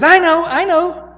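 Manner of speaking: high, eager "I know, I know"; eager blurting. Retold or imitated. Peter eagerly answering Jesus.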